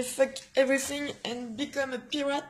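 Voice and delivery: put-on French speaker putting on a light English accent; lightly hammed-up English accent. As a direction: read the shirt slogan in a mock English accent. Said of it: "avec mon super accent anglais".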